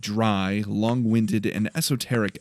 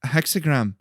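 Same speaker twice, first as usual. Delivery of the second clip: confident; 5 semitones higher than usual. A narrator's reading. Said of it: "she said confidently".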